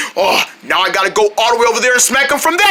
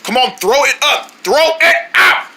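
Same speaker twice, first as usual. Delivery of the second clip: urgent coaxing; 3 semitones higher than usual. Pretend. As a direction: push him to cough it out. Urging friend choking to cough.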